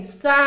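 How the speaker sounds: "sapo" with its vowels A and O drawn out; stressing the vowels. Shown as a demonstration. Teacher showing children the vowels, stressing the A and O in "sapo". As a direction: lean on the A and the O in "sapo". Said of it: "dando ênfase nelas".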